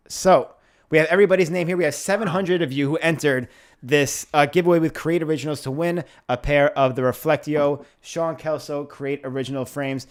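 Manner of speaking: upbeat host draw announcement; hyped giveaway announcement. Acted. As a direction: sell the prize draw like a host.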